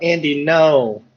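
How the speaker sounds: half-hearted scream of alarm; mild mock scream. Player screams out for hurting Andy, mild mock scream. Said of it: "I scream out".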